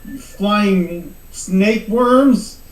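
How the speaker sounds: slow, laughing insult at monsters; laughing taunt. Acted. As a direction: drag it out while cracking up. Player taunting monsters in character.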